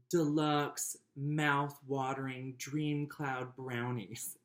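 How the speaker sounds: very slow, savoring every grand word; over-the-top great aunt. Retold or imitated. Reading great aunt's braggy recipe title, over the top. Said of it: "so over the top".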